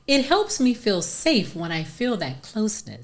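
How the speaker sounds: 느리고 부드럽게 읽기; slow soothing therapy-speak; soft, gentle. Shown as a demonstration. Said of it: "you should say".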